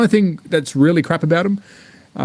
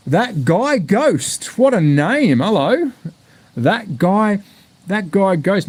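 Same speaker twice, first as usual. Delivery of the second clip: savouring a name; 5 semitones higher, much slower than usual. Real, not acted.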